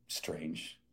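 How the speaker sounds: an awed whisper, barely voiced; whispered word. Retelling own amazed reaction.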